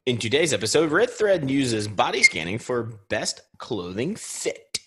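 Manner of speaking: scripted episode headline tease; podcast news headline delivery; news read. Acted. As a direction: announce today's top story. Co-host reads the episode headline.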